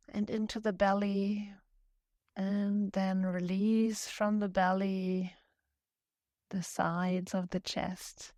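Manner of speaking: calm, unhurried yoga-teacher voice with long pauses; guided meditation. Acted. Yoga teacher guiding students to breathe and just notice, calm meditation voice. Leads seated breathing and settling.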